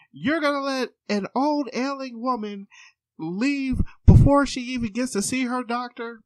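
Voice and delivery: high brazen granny voice, laughing; old lady. Retold or imitated. Patient arguing with the clinic worker, high granny voice. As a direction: push your case shamelessly.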